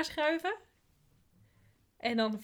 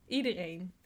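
slow; slower than usual. Shown as a demonstration. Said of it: "dit is iets van steun".

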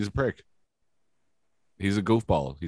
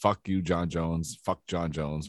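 mock quote; 4 semitones lower, 5 dB quieter, much slower than usual. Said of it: "it's funny that you say".

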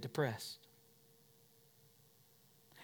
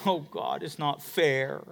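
mock whine; 3 semitones lower, 5 dB quieter, slower than usual. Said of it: "whine at God".

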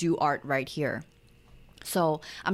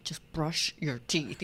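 retold exasperation; 3 semitones lower, 5 dB quieter, slower than usual. Exasperated parent holding back anger.

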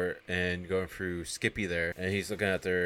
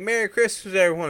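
very high, loud holiday cry; mock joyous shout; 13 semitones higher, 10 dB louder than usual. Joe walking out of the contract signing, jubilant shout. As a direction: call it out to the room, elated.

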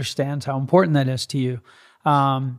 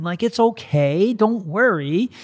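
talking to the dog; 6 semitones higher than usual. Retold or imitated. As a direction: reassure the jealous dog you'll be back. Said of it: "I just look at her and I go".

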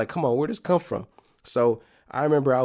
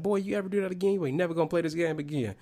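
heated mom; 6 semitones higher, faster than usual. Retold or imitated. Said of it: "My mama's still heated".

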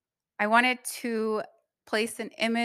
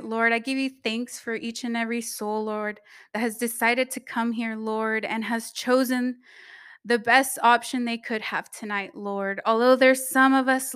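earnest spoken prayer. Acted. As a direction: pray it out to the congregation. Leads a prayer.

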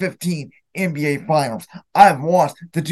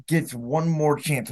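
quiet what-if; 6 dB quieter, slower than usual. Real, not acted. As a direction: let the question sink away softly. Fan repeats the what-if scenario.

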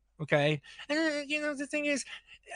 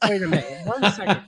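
firm, louder wait; loud interruption; 6 dB louder, faster than usual. Real, not acted. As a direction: cut in loudly to hold the floor. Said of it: "calling the room to order".

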